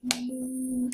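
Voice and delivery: drawn-out playful moo; a silly imitated moo; cow moo. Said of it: "I'm a cow".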